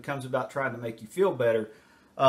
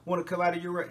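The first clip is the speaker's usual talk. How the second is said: raised, quick questioning parent voice; imitating a concerned parent; 5 semitones higher, faster than usual. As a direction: mimic a worried mom asking gently. Parent voiced asking child.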